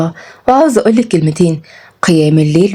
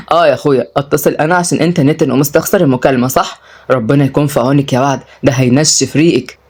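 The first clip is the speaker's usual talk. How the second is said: lightly voiced man in a lowered pitch; low, dry ribbing; teasing older brother; 4 semitones lower than usual. Brother mocks the other's stinginess, teasing.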